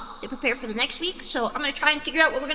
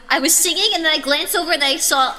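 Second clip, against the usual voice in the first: excited; 7 dB louder than usual. Real, not acted. Startled streamer blurting out.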